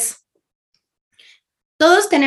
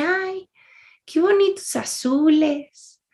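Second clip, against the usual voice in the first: dreamy admiration; 6 semitones higher, slower than usual. Retold or imitated. Admiring a painting while being yelled at, dreamily retold. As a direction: marvel gently at a painting, drawn out.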